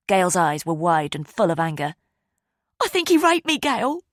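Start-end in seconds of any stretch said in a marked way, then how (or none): 2.8-4.0 high, loud anguished cry. A narrator's reading. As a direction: force out the awful truth. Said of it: "Ava cried".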